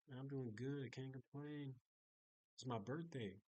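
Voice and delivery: offhand, matter-of-fact reply; casual. Retold or imitated. Maintenance man making small talk, casual. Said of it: "he said it so casually".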